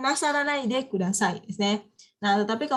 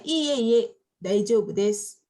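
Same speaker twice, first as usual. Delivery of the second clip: polite to a superior; slower than usual. Shown as a demonstration. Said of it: "contohnya yang ke atasan".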